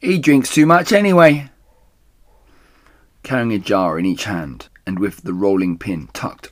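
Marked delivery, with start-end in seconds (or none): 0.0-1.5 muttered aside. Acted. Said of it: "speaking to herself".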